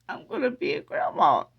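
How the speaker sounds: imitating yourself tearfully breaking the news; mock-weepy retelling of happy news; retold tearful announcement. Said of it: "I started crying again".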